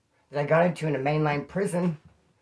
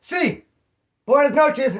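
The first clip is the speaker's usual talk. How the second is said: spooky greeting; 7 semitones higher, 3 dB louder, slower than usual. Retold or imitated. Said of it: "some dude came out".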